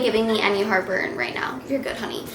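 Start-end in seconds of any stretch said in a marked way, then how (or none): 1.7-2.2 soft reassuring. Real, not acted. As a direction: softly reassure your little one. Reassuring child who interrupted.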